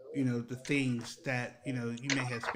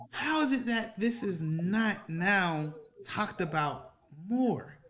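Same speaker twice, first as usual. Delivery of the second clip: laughing through it; 7 semitones higher, 3 dB louder, slower than usual. Real, not acted. Laughing through his own joke.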